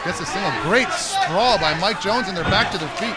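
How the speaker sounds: excited play-by-play. Real, not acted. Takedown attempt called live.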